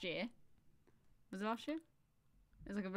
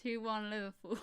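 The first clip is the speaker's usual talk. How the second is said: louder, more confident; 3 semitones higher, 5 dB louder than usual. Real, not acted. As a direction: say it out loud this time. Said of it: "Say it louder".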